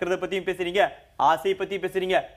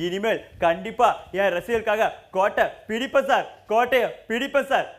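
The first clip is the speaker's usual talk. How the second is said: swaggering movie one liner; 3 semitones higher than usual. Acted. Hero punch dialogue climax.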